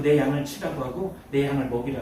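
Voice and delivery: low, soft, grave delivery; solemn quoted command. Retold or imitated. Jesus entrusting his lambs to Peter, solemn and hushed.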